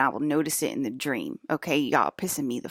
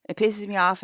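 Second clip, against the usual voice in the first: higher and louder on "It pisses me off"; louder, higher repeat; 5 semitones higher, 4 dB louder than usual. Real, not acted. Repeating her complaint about the yearly dream, louder and higher. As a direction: punch it out the second time, fed up.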